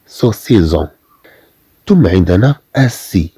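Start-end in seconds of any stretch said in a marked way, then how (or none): 0.1-0.9 سوسيزون with a z sound; wrong pronunciation demo. Shown as a demonstration. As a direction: say سوسيزون with a z in the middle. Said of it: "حتى لا تنطق". (نطق خاطئ سوسيزون بالزاي)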